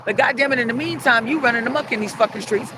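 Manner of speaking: angry rant. Real, not acted. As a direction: lay into him with emphatic insults. Ranting insults at the absent man.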